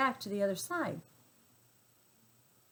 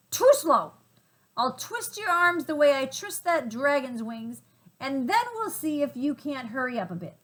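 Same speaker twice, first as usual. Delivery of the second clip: threatening gorilla; 5 semitones higher, 6 dB louder than usual. Acted.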